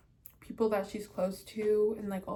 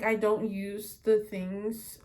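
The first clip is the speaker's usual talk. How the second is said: ordinary delivery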